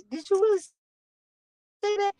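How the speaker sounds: high, slow disbelieving ask; amazed question. Retold or imitated. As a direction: act stunned she said it. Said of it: "And I said".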